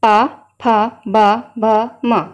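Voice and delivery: पा, फा, बा, भ, म popped loudly off the lips; lip syllable demo. Shown as a demonstration. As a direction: sound out पा, फा, बा, भ, म firmly so pupils repeat. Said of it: "आप बोलिए, मेरे साथ ही बोलिए".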